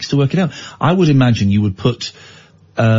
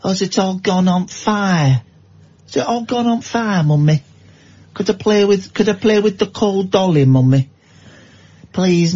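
put-on Victorian child voice; 2 semitones higher than usual. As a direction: beg like a poor mill kid. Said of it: "Why are they talking like that?".

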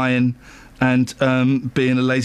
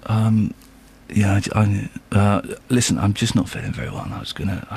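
faking being sick; 8 semitones lower than usual. Pretend. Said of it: "Go on, do yours".

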